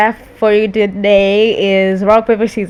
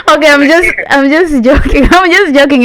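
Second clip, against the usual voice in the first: laughing reveal; 5 semitones higher, 5 dB louder than usual. Real, not acted. Revealing prank to mom.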